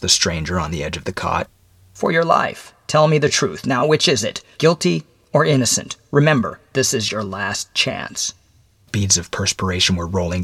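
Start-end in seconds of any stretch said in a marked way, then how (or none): 1.9-8.3 higher-pitched, deliberate stranger's voice; measured visitor addressing a condemned man; stern mysterious visitor. Acted. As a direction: spell out the grim facts in a higher voice.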